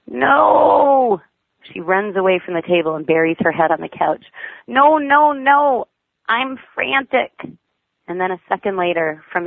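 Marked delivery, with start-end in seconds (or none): 0.1-1.2 loud, high shout of refusal; frantic child's no. A narrator's reading. Frantic child shouting at mother about peeing. 4.7-7.3 put-on frantic child's no. A narrator's reading. Frantic child shouting at mother about peeing.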